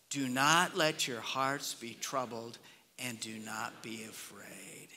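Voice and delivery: slow, measured reading of the verse; solemn scripture reading. Acted. Pastor reading a verse to the congregation, slow and solemn. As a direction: let each phrase settle, slowly.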